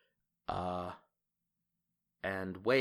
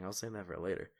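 muttering aside; 7 dB quieter, faster than usual. Acted.

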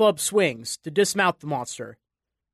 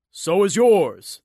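laughing; 6 dB louder, slower than usual. A narrator's reading. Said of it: "the man laughed".

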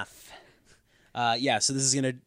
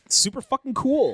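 sarcastic; 13 semitones higher, 8 dB louder than usual. Real, not acted. Sarcastic praise, louder, higher.

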